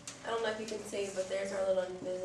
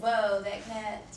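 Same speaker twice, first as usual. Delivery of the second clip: drawn-out whoa; 8 dB louder, much slower than usual. Acted. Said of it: "the invisible man says".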